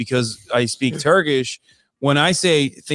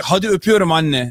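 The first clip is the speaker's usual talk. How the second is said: put-on aggressive-sounding, yell-like Turkish, higher pitch; 5 semitones higher than usual. Retelling saying goodbye to mom in Turkish: imitating own aggressive-sounding Turkish. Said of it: "People say I sound, like, way more aggressive".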